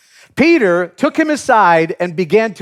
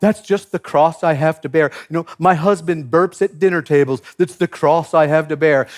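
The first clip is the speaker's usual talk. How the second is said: mock churchgoer complaint. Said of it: "for us, that's symbolic".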